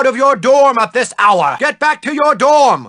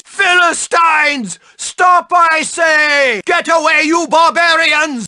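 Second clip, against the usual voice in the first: higher, shouting out; indignant shout; 5 semitones higher than usual. Acted. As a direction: drive the barbarians off. Teacher shoos away vandals.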